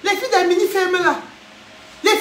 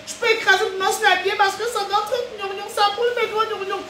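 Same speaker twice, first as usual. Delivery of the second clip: laughing whine; 3 semitones higher, 3 dB quieter than usual. Retold or imitated. Mock whining about burning fingers.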